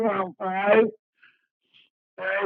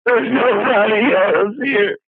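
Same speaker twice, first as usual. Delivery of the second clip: distraught shouting; 6 dB louder, slower than usual. Real, not acted. Distraught caller on emergency line.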